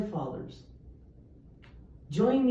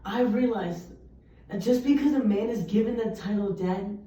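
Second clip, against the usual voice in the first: poem recital. Acted. Student reciting a poem about an absent dad, solemn. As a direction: let each image land in the pauses. Opening spoken-word poem.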